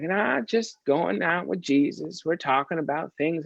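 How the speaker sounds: a hint of a slow, folksy Tennessee storyteller; easygoing and unhurried, stretching the words; slow folksy drawl. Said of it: "this kind of slow, folksy way".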